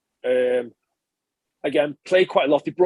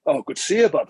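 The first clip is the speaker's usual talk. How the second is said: friendly mock-Welsh lilt, pitched up a little; Kingsley Jones in Welsh accent. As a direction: greet a mate in an attempted cheery Welsh accent. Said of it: "in his Welsh accent".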